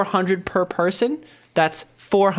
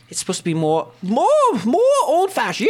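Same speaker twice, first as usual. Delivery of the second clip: put-on old-fashioned voice; 6 semitones higher than usual. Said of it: "too high-pitched and weedy".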